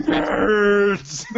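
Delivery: shout. Pretend. Revenge of the Nerds yell.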